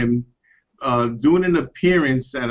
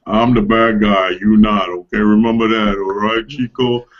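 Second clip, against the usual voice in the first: put-on lower-pitched stab at a Spanish-accented wrestler; attempted Spanish accent; 3 semitones lower than usual. Imitating the wrestler's bad-guy catchphrase, attempted Spanish accent. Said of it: "I can't even talk like that".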